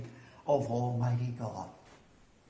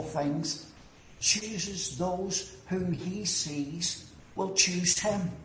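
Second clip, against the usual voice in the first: a touch higher, slow and deliberate, mildly parodied; mock Arminian believer; 5 semitones higher than usual. Preacher mildly mimicking the Arminian believer, slow and raised. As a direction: lightly voice the opponent's view, drawn out. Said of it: "But he says".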